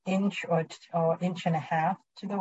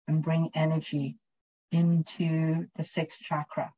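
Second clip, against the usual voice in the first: guided meditation. Acted. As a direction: gently guide their attention inward. Leads a chakra meditation.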